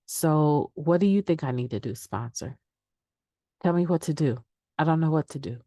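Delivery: mock helpless plea. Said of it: "I've used that line".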